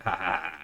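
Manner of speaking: imitated taunting "ha ha"; mocking laugh. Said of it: "just to end up mocking me".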